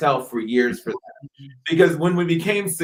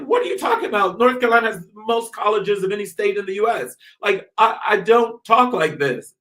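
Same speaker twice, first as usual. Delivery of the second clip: high-pitched, affronted protest; incredulous retelling; 5 semitones higher than usual. Retold or imitated. Southerner recounts objecting to a dialect script, incredulous. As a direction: retell it with raised pitch, in disbelief.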